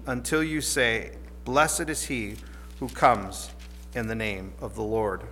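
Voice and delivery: measured, solemn Bible reading; scripture reading. Acted. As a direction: read the passage with reverent weight. Reads scripture passage aloud.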